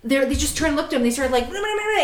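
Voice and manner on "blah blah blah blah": high-pitched gibberish imitating Dutch; cartoonish Dutch chatter, pitched way up; mock Dutch babble. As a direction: jabber nonsense as if arguing in Dutch. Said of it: "in Dutch".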